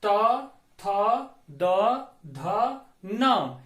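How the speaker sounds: each consonant said apart; reciting consonants. Shown as a demonstration. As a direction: sound out the k-row one by one. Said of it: "व्यंजन वर्ण लिखे जा चुके हैं".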